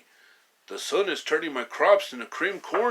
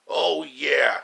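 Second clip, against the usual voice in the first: shouted comeback. Acted. Villains squabbling, trading taunts.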